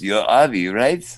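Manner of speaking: imitated Israeli accent; foreign accent. Stranger checking he has spotted Avi, Israeli accent. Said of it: "in an accent will say".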